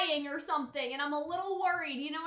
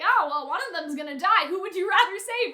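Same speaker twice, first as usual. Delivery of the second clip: matter-of-fact; 2 semitones higher, 6 dB louder than usual. Retold or imitated. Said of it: "Lou says it very matter-of-factly".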